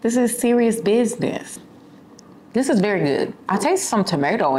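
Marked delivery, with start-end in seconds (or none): 2.5-4.6 chewing while talking; talking after a bite of food; mouth full. Real, not acted. Seen 0: Fork to mouth at -1.0; speaks right after, likely still chewing.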